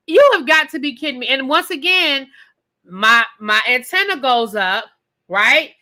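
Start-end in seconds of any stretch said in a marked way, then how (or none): 0.1-1.3 incredulous disbelief. Retold or imitated. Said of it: "I was really sitting here like".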